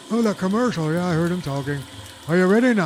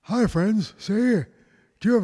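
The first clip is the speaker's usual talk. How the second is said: radio announcer. Acted. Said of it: "I sound like Ricky Radio".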